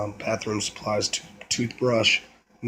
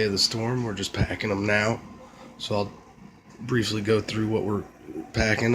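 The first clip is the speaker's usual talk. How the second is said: hoarse from a cold; scratchy, worn voice; raspy voice; 2 semitones lower, 5 dB quieter than usual. Real, not acted. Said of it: "I'm sorry about the raspy voice".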